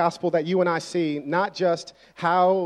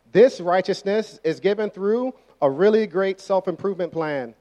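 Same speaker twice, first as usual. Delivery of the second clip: 1 mock wrong version; 2 semitones higher than usual. Shown as a demonstration.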